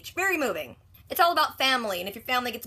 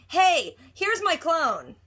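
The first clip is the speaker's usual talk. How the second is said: mock teasing; 6 semitones higher, 4 dB louder, much slower than usual. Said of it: "I'm gonna mess with her".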